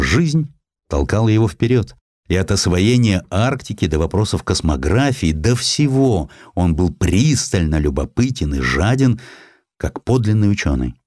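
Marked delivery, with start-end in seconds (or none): none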